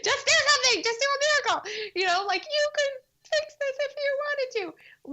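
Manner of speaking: venting at God, half-mock; imitating an exasperated outburst; frustrated plea. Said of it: "so mad at God".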